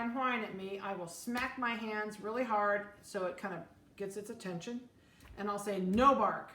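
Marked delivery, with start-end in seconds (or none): 5.8-6.5 sharp, loud stern "No bark"; stern command. Shown as a demonstration. Dog breeder demonstrating a stern command to a puppy. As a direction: snap "No bark" at the crying puppy. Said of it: "I do it really sternly".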